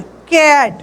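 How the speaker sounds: कैट with the mouth opened wide, the vowel stretched long; open vowel demo. Shown as a demonstration. Teacher to class, wide open vowel model. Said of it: "मुंह है उसको थोड़ा सा ज़्यादा खोलना है".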